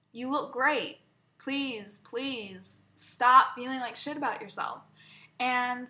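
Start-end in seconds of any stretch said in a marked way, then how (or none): 0.1-4.8 slow, pleading reassurance; sincere, drawn-out pleading; earnest plea. Retold or imitated. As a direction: urge mom to accept the compliment. Her own plea to mom, retold.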